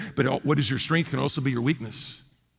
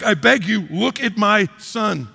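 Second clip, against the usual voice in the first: begging father; 4 semitones higher, 3 dB louder, slower than usual. Retold or imitated. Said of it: "he's like".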